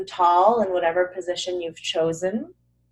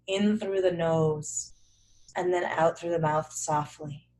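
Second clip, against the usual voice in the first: unhurried meditation-teacher voice; guided breathing; 4 semitones lower, 6 dB quieter than usual. Acted. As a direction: ease them into a calm breath.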